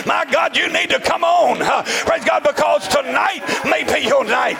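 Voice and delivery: shouted, rhythmic revival sermon; driving pulpit cadence, rising at the end; full-force preaching. Real, not acted. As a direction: urge the congregation on in hard bursts.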